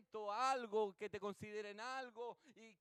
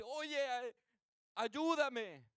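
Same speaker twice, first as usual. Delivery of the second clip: imitated call for help, raised pitch; llamado de auxilio; 4 semitones higher, 6 dB louder, much slower than usual. Amigo pide ayuda de noche. (llamando al vecino para pedir ayuda)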